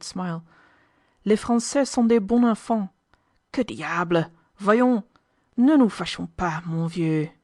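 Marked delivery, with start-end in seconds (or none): 1.2-7.3 jovial French officer. A narrator's reading. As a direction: slap his shoulder heartily.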